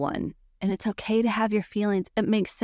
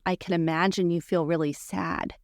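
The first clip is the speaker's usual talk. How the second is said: empathetic tone. Shown as a demonstration. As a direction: gently reflect their sadness back. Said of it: "Now watch my tone".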